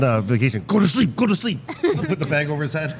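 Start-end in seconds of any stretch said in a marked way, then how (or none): 0.7-1.6 high coaxing lullaby tone; sing-song lull. Retold or imitated. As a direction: coax him to sleep, teasing. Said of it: "So I was like".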